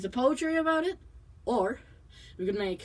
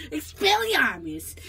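mock heroic spell; 4 semitones higher, 3 dB louder, slower than usual. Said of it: "made this my trailer".

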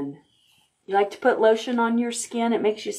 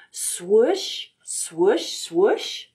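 swoosh sound; much slower than usual. Shown as a demonstration. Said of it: "Can you say that?".

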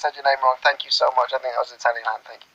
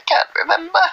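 high whine. Real, not acted. Frustrated she can't recall.

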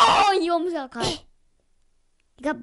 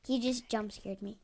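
whispering; 6 semitones lower, 9 dB quieter than usual. Real, not acted.

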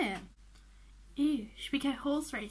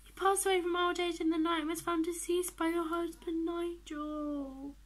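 upset; 4 semitones higher than usual. Real, not acted. Reading out her dog's death.

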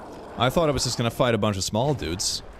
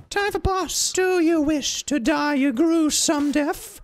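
very high, strained villain; high-pitched hammed-up menace; changeable boss voice; 3 dB louder, much slower than usual. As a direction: screech the threat slowly like a cartoon boss. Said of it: "Their voice also changes every time".

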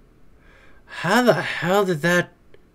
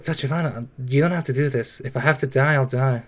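soft, low mock plea; a hint of a dying hero's sacrifice; hushed, lightly acted resignation; mock pleading; 7 semitones lower, 6 dB quieter than usual. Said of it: "I be like".

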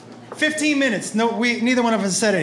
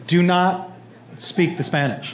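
lower, halting dad command; firm order; 3 semitones lower, slower than usual. Retold or imitated. Dad forbidding son to speak Spanish, low firm order. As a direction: lay it down with a pause after NOT.

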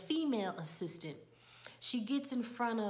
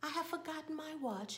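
higher-pitched, quick stage voice; play-acting woman; 7 semitones higher, 5 dB quieter than usual. Assistant playing a woman in the play, high stage voice. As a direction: imitate an actress delivering her line. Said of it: "and she says".

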